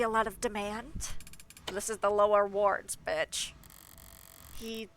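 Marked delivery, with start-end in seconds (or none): 1.7-3.5 louder pinched-nose voice; nasal gatekeeper voice. Acted. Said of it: "the most nasal voice possible".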